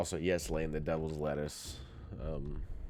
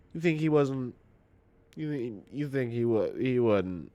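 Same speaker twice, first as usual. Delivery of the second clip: incredulous; 6 semitones higher, 4 dB louder than usual. Retold or imitated. Incredulous rant at grandmother.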